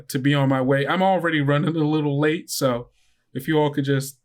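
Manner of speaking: a chatty driver running late; chirpy bus driver. Acted.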